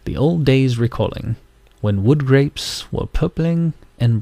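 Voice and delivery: put-on slow, lilting English accent poem reading. Vlogger reciting a pumpkin poem for viewers in an English accent. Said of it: "my English accent going for you guys".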